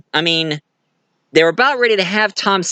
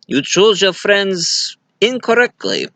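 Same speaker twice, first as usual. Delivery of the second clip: villain's threat; 5 semitones higher than usual. Retold or imitated. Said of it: "And he said".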